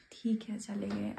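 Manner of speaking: soft, slow resigned whisper; sad whisper. Real, not acted. Remembering Amma who went home, sad whisper. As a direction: let it go, barely voiced.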